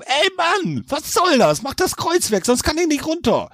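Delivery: a trapped devil complaining shrilly; devil calling from the tree. A narrator's reading. Trapped devil calling down to Jack, whiny. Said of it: "Der Teufel rief vom Baum".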